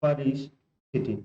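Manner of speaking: परिस्थिति drawn out slowly; slow dictation; slow emphatic repeat. Shown as a demonstration. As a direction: repeat it slowly for students to write. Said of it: "क्या होता है?".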